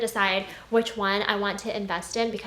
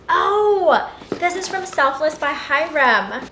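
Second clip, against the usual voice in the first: loud, high delighted "oh"; excited exclamation; 5 semitones higher, 6 dB louder, slower than usual. Real, not acted. Vlogger opening a skincare package, excited exclamation. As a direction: burst out, pleasantly surprised.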